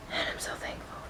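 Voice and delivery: very soft, choked-up whisper; emotional. Real, not acted. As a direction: barely get it out, overcome with gratitude. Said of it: "I'm very emotional right".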